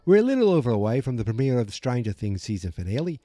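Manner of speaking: put-on English accent sliding into Australian; badly faked English-Australian accent. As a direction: attempt English but land on Australian. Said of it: "Oh, no, I'm Australian".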